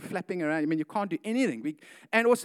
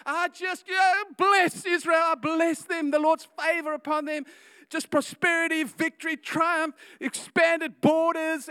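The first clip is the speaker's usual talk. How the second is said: going deeper and harder; 8 semitones higher, 4 dB louder than usual. Acted. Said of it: "he goes deep, he goes harder".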